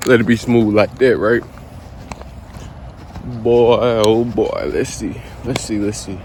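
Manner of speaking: panting while walking and talking; out of breath. Real, not acted. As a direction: talk between breaths, winded. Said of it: "Y'all gonna notice I'm a little out of breath now".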